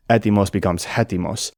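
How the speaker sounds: "Etimos" plain, then "hetimos" with a breathy H at the start; adding the H. Shown as a demonstration. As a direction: show how "Etimos" turns into "hetimos". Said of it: "the H sound that comes before the initial vowel".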